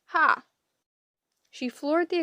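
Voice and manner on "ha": sudden loud, high burst; short raised exclamation. A narrator's reading. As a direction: bark it out like a triumphant driver. Cab driver's outburst in story.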